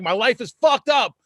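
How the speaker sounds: loud, high mock wail of despair; hammed-up cry of doom; mock despair outburst. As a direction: whine it like your life is over.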